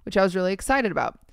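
measured story-reading voice; reading aloud. Acted. Podcast host reading a Reddit post to co-host, reading aloud. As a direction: read the post out evenly.

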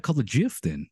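"gif" said like "jif"; soft-g gif. Shown as a demonstration. Host challenging the popular version, soft-g "gif". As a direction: say "gif" with a j sound. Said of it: "everybody calls it gif".

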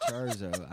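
Charzo said laughing, with the o of chorizo dropped; butchered chorizo, laughing. Retold or imitated. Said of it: "mess up the word chorizo".

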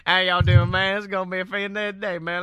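fast, run-together Southern mumble; Boom Hour. Acted. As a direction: rattle it off in a heavy Southern accent. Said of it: "it's kinda like Boom Hour".

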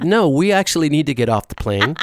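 slowing, spelled-out reasoning through a laugh; patient insistence. Retold or imitated. Host retelling coaxing partner off the plane, patient insistence. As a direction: imitate someone explaining the obvious.

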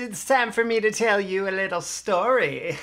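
put-on campfire storyteller gathering the kids; spooky story-time voice; hushed creepy legend telling. Playful kids' storytime opener.

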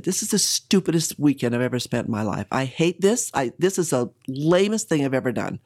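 mildly worked-up rant, hard emphasis; exasperated venting, partly held back; retold outburst. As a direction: relive going off at someone. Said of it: "went off".

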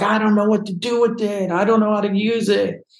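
high-pitched imitated tearful protest; retold crying. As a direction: protest helplessly, as if in tears. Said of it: "I was crying".

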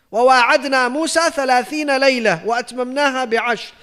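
rapid chanted Arabic recitation; Quran recitation. Acted. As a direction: recite the verse quickly, in one breath. Quoting Quran verse in Arabic.

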